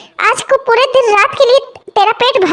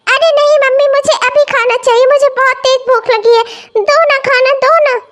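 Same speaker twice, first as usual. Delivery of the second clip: put-on 1 whiny child; 2 semitones higher than usual. Child whining for food.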